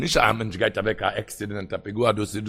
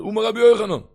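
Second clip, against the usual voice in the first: impassioned teaching; 5 semitones higher, 4 dB louder than usual. Acted.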